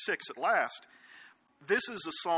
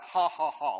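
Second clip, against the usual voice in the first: hearty read-out ha ha ha; spelled laugh; 5 dB louder than usual. Shown as a demonstration. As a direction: say ha ha ha like a jolly laugh. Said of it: "spell it out".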